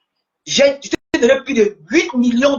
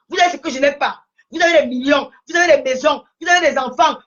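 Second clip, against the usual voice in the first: indignant shouting. Real, not acted. Angry rant at rivals.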